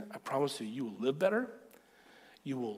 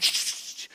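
shushing. Retold or imitated. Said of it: "she starts laughing, like".

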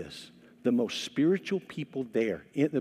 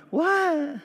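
sudden high-pitched what; baffled what; 13 semitones higher than usual. Retold or imitated. Pastor reacting to the reader, high startled what. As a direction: squeak out a stunned what. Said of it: "And I'm like".

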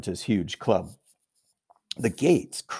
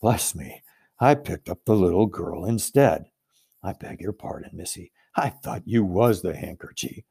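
muttering giant; 4 semitones lower than usual. Acted.

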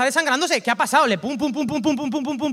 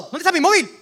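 higher and louder, frantic search; mock panic; 7 semitones higher, 10 dB louder than usual. A preacher acting someone who lost their phone, frantic. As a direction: act out the sudden fear of a lost phone.

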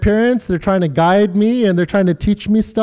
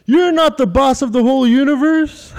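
put-on kid's taunt; 5 semitones higher than usual. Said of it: "and he goes".

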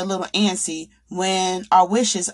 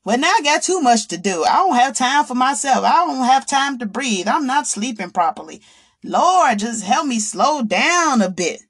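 overwhelmed woman; 4 semitones higher than usual. Retold or imitated. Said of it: "what does she say?".

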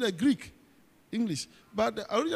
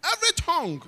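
laughing; 8 semitones higher, 3 dB louder, faster than usual. Real, not acted. Laughing after the joke.

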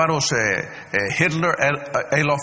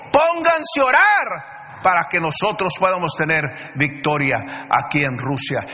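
Stalin's order. Retold or imitated. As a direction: bark the order like a dictator. Stalin ordena a los predicadores. (orden gritada de Stalin)

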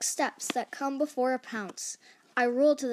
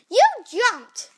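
loud, high acted outcry; scream; 10 semitones higher, 11 dB louder than usual. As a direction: yell it in protest, pitched right up. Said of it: "screams Gerald".

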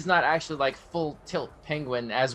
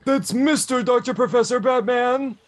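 loud slow sneering villain voice; villain impression; 10 semitones higher, 6 dB louder, slower than usual. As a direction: boom it out, mocking the hero. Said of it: "how that impression".

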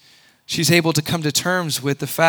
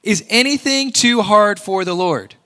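voicing God; 5 semitones higher than usual. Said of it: "God himself who says it".

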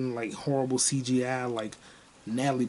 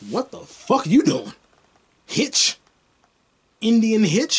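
loud, incredulous comeback; retold indignation; 7 semitones higher, 6 dB louder, slower than usual. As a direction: throw the mocking question back loudly. Retelling his indignant comeback.

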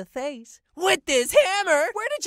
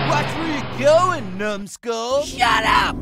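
angry shout; 4 dB louder than usual. Acted. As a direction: yell it, louder. Road rage while driving.

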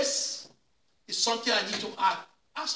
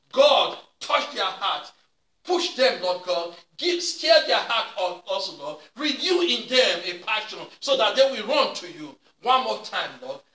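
fervent prayer. Acted. Pastor pleading for the congregation, fervent prayer. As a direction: cry out to God to push them.

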